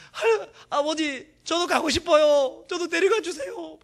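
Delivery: put-on high, slow, small boy's asking; timid child's plea. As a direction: draw it out like a shy child begging. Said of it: "그렇게 했던 거예요". (높고 느린 아이 같은 조심스러운 부탁)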